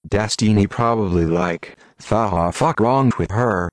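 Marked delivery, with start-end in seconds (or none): 2.0-3.7 slow Southern country drawl. Retold or imitated. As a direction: say it like a country girl, slowly. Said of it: "in her country voice".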